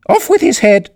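shrill high royal shriek; furious shout. A narrator's reading. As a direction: bellow it like a raging queen. Queen's stock order.

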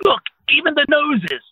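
high, slow teasing remark; drawn-out playful jab at the pair; Steven teasing. Retold or imitated. Steven teases the two lookalikes, high and slow. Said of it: "a voice, and I swear it was Steven, goes".

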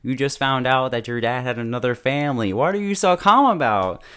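incredulous retort, rising high and loud; retold protest, building to a high exclamation; can't believe how chill he is; exasperated disbelief. Retelling own exasperation at Kentaro.

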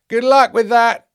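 loud, high, drawn-out sarcasm; slow mocking good wishes; scoffing send-off. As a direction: wish luck with open disbelief. Angel scoffs at the task.

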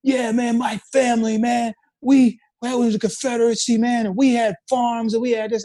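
hammed-up Southerner defending his family; imitating a ranting guy. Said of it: "the guy was just going off".

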